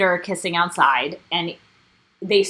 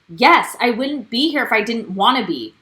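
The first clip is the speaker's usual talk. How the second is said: louder, curt imitation of a rude reply; rude retort; 3 semitones higher, 4 dB louder than usual. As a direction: throw it back rudely, imitating her. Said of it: "in a very rude way".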